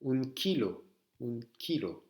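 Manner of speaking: KILO with a plain hard K, repeated; Q comme en français. Shown as a demonstration. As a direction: model kilo carefully for learners. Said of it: "Ça se prononce comme en français". (son k français dans kilo)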